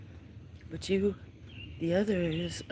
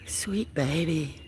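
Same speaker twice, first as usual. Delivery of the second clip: slow cooing; slower than usual. Real, not acted. Owner cooing slowly to her new feral kitten, tender. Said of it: "cooing to kitten".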